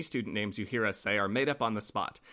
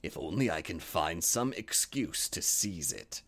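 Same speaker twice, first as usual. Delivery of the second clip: lightly voiced wolf; 6 semitones lower, 6 dB quieter than usual. A narrator's reading. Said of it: "thought he".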